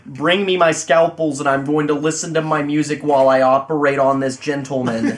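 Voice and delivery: put-on precise, stiff American accent; crisp American accent, every word spelled out; over-enunciated American accent. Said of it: "over enunciates every single English word".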